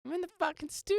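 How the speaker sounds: high, far-off tag voice; hammed-up studio drop; mock producer tag. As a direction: shout it like a rapper's producer tag.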